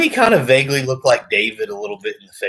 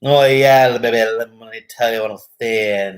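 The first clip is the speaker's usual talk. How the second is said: loud lisping wrestling promo voice; Dusty Rhodes impression; 4 dB louder than usual. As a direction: lisp it out like the old cowboy wrestler. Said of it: "They talk with a lisp like this".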